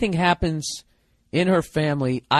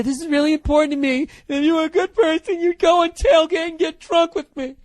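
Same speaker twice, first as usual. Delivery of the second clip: high, louder whiny mimic of himself, building to a shout; mock whiny plea; 13 semitones higher, 4 dB louder than usual. Mocking his wife's guilt trip, hammed-up high whine. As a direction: whine it like a guilt-tripping spouse. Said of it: "But I sit there".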